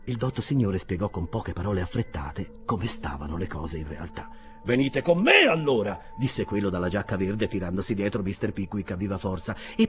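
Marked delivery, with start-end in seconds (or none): 4.6-6.0 raised, louder order; loud invitation that allows no argument; commanding. Acted. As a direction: take charge briskly. Newcomer takes charge of Pickwick.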